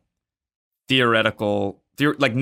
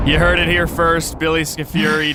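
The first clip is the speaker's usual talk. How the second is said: big mock announcer, louder; 5 semitones higher, 4 dB louder than usual. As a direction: proclaim it like a news flash. Mock announcement of guest's location.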